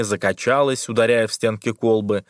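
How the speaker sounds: ordinary delivery, nothing marked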